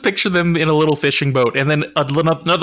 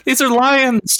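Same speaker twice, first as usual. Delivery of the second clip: delighted emperor; 9 semitones higher, slower than usual. Pretend. Acting out Nero's bad idea.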